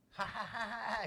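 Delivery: put-on kid brother laugh; imitated mocking laughter. Little brother laughing at his smacked sibling, mock laughter. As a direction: act out a child who won't stop laughing. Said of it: "He kept laughing".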